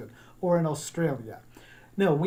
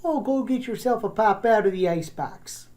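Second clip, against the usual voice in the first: higher, broad Midwestern voice; Midwest accent; 4 semitones higher than usual. Shown as a demonstration. Teacher imitating how they talk up north, Midwest accent. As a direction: lay on the northern Midwest vowels. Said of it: "up north into the Midwest".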